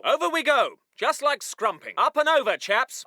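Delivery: low, easy officer; casual encouragement. Acted. Officer helping chaps over the wall, casually cheery. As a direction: nudge them over lightly. Calm version of wall order.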